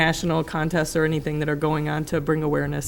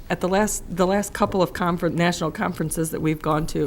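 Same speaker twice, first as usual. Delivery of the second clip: hoarse voice. Real, not acted. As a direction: voice giving out, hoarse. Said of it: "I'm losing my voice".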